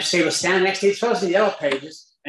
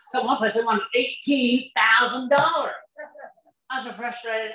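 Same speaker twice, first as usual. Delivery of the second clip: laughing; 8 semitones higher than usual. Real, not acted. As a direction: laugh through the frustration. Laughing, high, slowed telling.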